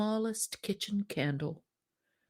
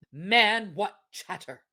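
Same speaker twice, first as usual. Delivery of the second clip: scornful wife. Acted. Wife dismisses husband.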